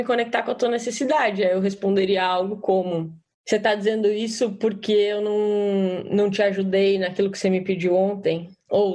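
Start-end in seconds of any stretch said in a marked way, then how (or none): 3.5-8.5 calm, gentle guessing question; non-violent, empathic. Shown as a demonstration. Participant demonstrates non-violent reply to angry partner, calm and empathic. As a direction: ask with care what the need is. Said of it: "de uma forma não violenta".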